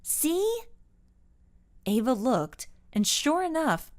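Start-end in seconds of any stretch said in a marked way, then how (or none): 0.0-0.6 very high, rising "See?"; high-pitched demand to look; insistent question. A narrator's reading. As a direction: press the point with a high upturn. Carol jabs finger at map.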